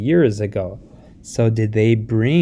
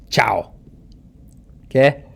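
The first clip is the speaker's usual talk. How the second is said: whispered aside. Real, not acted. Unvoiced aside.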